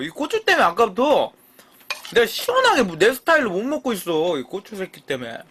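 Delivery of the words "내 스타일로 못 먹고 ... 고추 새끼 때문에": ordinary talk, nothing marked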